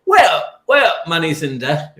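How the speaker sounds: put-on Yorkshire accent. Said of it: "I'm doing my Yorkshire accent".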